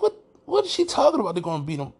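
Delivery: high-pitched baffled questioning; retold incredulity. Retelling his disbelief at wife's prediction.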